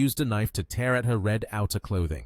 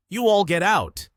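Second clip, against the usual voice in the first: loud, high-pitched command; shouted order; 9 semitones higher, 6 dB louder than usual. A narrator's reading. Bearded boss sends his men out, shouted order.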